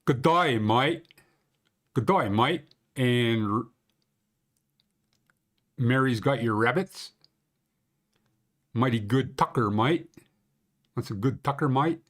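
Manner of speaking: joking put-on Australian accent; mock Australian twang for a Banff local. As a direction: do a hammed-up Aussie "g'day mate". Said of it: "I'm gonna give you my, uh, Banff accent".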